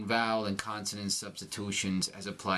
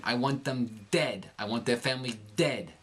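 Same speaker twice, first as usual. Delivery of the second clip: lightly voiced New York movie tough guy; New York quote with dentalized D on "dead"; Robert De Niro. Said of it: "Robert De Niro in the movie The Untouchables".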